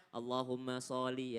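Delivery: SHOLLI with a single, undoubled l; common mistaken reading. Retold or imitated. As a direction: imitate the slip, saying SHOLLI as so-li. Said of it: "masih banyak orang yang baca".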